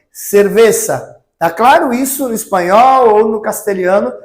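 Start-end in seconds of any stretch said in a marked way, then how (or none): 0.1-1.2 cerveza with a hissed s, not a z, slowly; Spanish z as s. Shown as a demonstration. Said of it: "e o Z com som de C cedilha também".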